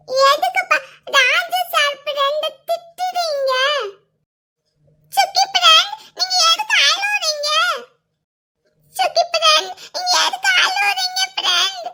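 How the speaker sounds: put-on high, weepy childlike pleading; tearful child. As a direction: ask through tears. Child crying, asking why.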